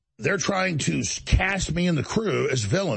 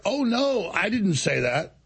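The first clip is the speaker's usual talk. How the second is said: mock innocence; 5 semitones higher, slower than usual. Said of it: "And then he's like".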